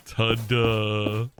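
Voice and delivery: flat, deadpan ta-da; unimpressed. Shown as a demonstration. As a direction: say it with zero enthusiasm. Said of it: "Could you imagine it?".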